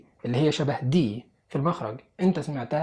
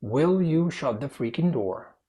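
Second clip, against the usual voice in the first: slow, clearly separated words; slow the question down so each word is clear; a bit slower; much slower than usual. Shown as a demonstration. Teacher repeating for confused learners, slow and clear. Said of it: "أبطأ سنة صغيرة".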